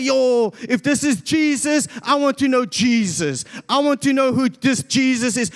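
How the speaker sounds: a touch of eager excitement; excited crowd. Retold or imitated. Onlooker wanting to know Jesus, mildly excited. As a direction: imitate an onlooker carried away by excitement. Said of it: "everybody there gets excited".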